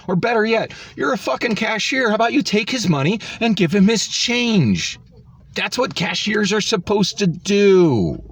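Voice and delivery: angry rant. Real, not acted. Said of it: "ranting at the cashier".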